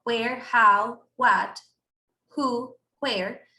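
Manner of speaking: "Where, how, what, who" each begun with a light J-like breath; soft J question words. Shown as a demonstration. Teacher drills students on the WH word sounds. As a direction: run through the question words with a soft start. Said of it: "la H suena así como, como si fuera una J".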